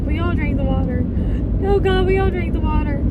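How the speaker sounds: mock dread as the group realise their mistake; retold panic. Group realising they drank the water, mounting mock panic.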